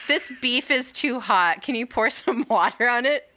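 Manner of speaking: mock-prissy diner voice; whiny snob. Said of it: "they're like".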